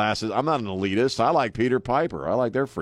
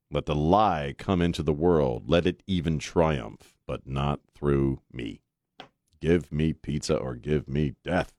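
slow, measured, low recital; solemn quotation; 5 semitones lower than usual. Acted. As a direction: recite it like a solemn creed, pausing on each phrase. Quote recited as solemn creed.

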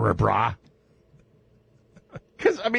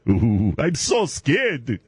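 mock fear; much slower than usual.

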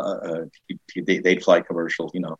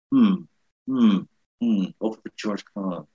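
mock pondering. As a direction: play at thinking it over. Mock pondering a job offer.

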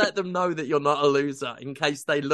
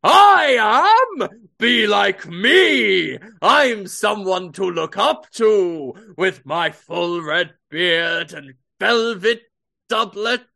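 loud, slow booming boast; hammy Hardy Holmes; 3 semitones higher, 6 dB louder, slower than usual. Pretend. Hardy Holmes showing off to kids, booming boast. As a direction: boast like a vain showman. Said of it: "you're always going".

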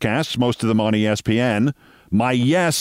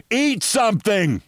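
blunt punchline; 8 semitones higher than usual. Retold or imitated. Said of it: "I say".

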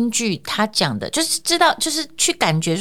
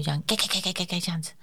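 clicking heels; 9 dB quieter than usual. Retold or imitated. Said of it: "呃，穿高跟鞋嘛".

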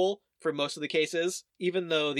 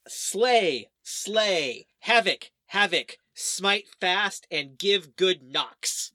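mock battle cry, each word punched out; measured, half-shouted war chant; mob battle cry; 2 semitones higher, 4 dB louder, much slower than usual. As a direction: chant it like a rallying mob, slowing at the end. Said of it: "they cried".

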